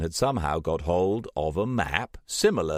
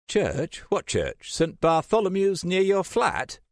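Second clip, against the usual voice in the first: rising, baffled questions; lost and puzzled, pitch climbing; higher, louder bewildered questioning; confused; 14 semitones higher, 4 dB louder than usual. A narrator's reading. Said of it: "Jason said, confused".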